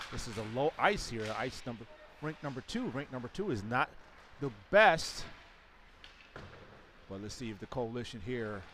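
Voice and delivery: live hockey play-by-play; sports commentary. Real, not acted. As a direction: call the game as it happens.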